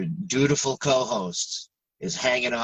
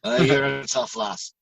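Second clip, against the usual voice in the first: put-on a light, joking Scottish accent, a bit louder; mock Scottish accent; 2 semitones higher, 3 dB louder than usual. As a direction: play at being a Scot calling someone lassie. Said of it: "working on a Scottish accent".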